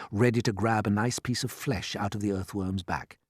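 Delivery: usual speaking voice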